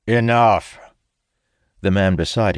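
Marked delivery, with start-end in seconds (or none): 0.1-0.8 loud, cutting order; commanding shout. A narrator's reading. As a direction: shout to silence him. General cuts him off.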